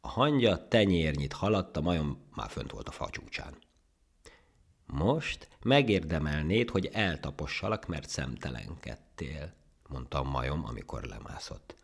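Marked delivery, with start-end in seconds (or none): 4.9-9.5 slow warning, dropping as it goes; threatening. Acted. Monkey threatening to trample the ant, menacing. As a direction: menace with drawn-out words.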